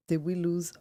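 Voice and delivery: glitchy robotic digital voice; bitcrushed, breaking up. Real, not acted. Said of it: "You sound robotic".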